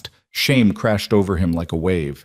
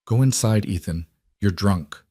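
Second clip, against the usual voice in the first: level calm. Acted. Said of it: "her voice remained level".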